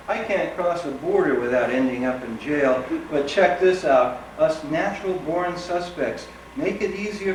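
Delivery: emphatic, rhythmic spoken-word delivery; poetry reading. Acted. Poet performing a work poem for an audience, emphatic reading. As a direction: punch each phrase, letting it fall at the end.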